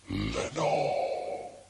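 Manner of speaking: breathy whispered Lenore; whispered name. Acted. Lonely speaker whispering a lost love's name into darkness, hushed whisper. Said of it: "the whispered word".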